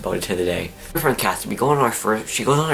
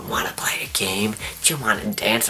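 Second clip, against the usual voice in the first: lightly voiced creepy clown, breath in the first words; hushed, half-whispered taunt of a mock clown; 3 dB quieter than usual. Clowns leaning over a scared visitor, mock creepy whisper.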